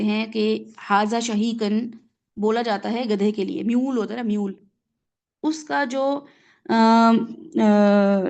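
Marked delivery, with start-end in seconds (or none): 5.4-8.3 donkey bray imitation. Shown as a demonstration. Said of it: "donkey voice کو بولا جاتا ہے".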